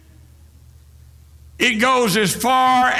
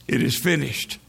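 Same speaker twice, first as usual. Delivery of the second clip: hushed and low, barely above a breath; soft whisper; 7 semitones lower, 5 dB quieter than usual. A narrator's reading. Blood drops whispering to the grass, hushed. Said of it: "whispered to the grass".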